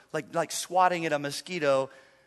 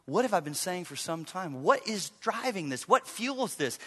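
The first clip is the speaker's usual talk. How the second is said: much softer questioning prayer; quiet prayer; 7 dB quieter than usual. Retold or imitated. Pastor sitting down to pray about his anger, hushed. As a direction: ask God humbly, almost under breath. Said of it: "I had to sit down and say".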